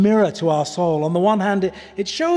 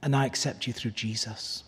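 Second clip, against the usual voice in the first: tender; 4 semitones lower, 7 dB quieter than usual. Pretend. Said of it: "he says".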